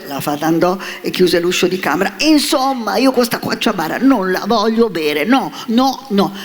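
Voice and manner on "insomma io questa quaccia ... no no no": stubborn puppet. A narrator's reading. Puppet stubbornly refuses medicine.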